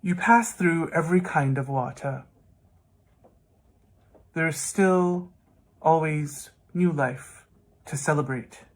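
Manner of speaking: measured verse with long pauses; poem reading. Acted. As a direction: recite the closing lines, letting each phrase stand apart. Reads last part of poem.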